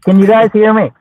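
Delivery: muffled bad phone line; speaking as if under water; underwater. Real, not acted. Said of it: "Sounds like you're underwater".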